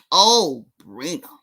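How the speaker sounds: low, drawn-out mocking call; pitying sing-song. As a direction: croon her name in fake sympathy. Mock pitying call to Sabrina.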